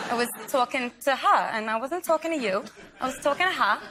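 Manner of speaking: retold Brooklyn accent with attitude. Actress demonstrating her audition scene, Brooklyn accent. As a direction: put on a light Brooklyn accent. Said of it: "what does a Brooklyn accent sound like".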